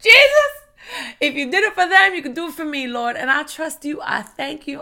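high, loud cry that eases off; prayerful cry. Acted. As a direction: call out to Jesus, then settle into earnest trust. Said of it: "Are you in this posture of".

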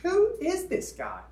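drawn-out mock confusion; baffled. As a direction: ask it like you're totally lost. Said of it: "just going like".

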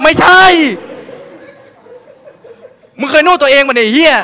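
high, loud exasperated shout with laughter; comic outrage. Retold or imitated. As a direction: yell at her, cracking up.

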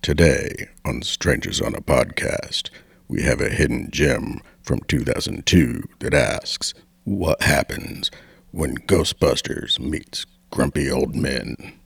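low, soft announcer voice over music; airport announcement. Acted. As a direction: read it like a terminal PA. Podcast intro as train announcement.

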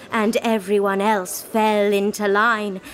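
usual speaking voice

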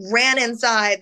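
ordinary delivery

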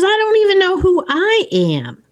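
Holly's lament. Retold or imitated. Holly quoted in retold film.

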